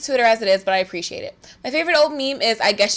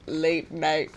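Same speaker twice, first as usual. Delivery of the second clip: imagined late night; 7 semitones lower, 7 dB quieter than usual. Acted. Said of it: "I feel as if it was".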